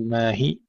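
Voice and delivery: ما هي with final ee clipped short; wrong cut-short ending. Shown as a demonstration. Teacher showing the error, shortened final vowel. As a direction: chop the long vowel of هي. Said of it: "لا نشدد ولا نحذف".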